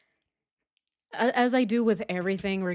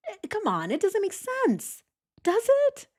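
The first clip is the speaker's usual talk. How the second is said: high-pitched incredulity; 12 semitones higher than usual. Real, not acted. Host asks viewers if theory holds, squeaky disbelief. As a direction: voice shoots way up in disbelief. Incredulous appeal after demonstration.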